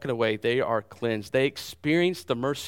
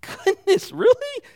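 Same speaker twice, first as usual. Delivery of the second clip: higher, louder, climbing with wonder; amazed; 5 dB louder than usual. Pretend. Preacher showing the church how to react to the miracle, amazed. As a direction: gasp it out like it just blew your mind. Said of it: "ought to get you like".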